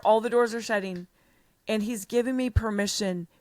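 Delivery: ordinary delivery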